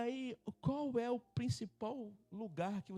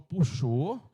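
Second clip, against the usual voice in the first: loud insistence; 10 dB louder than usual. Retold or imitated. Insisting it pulled.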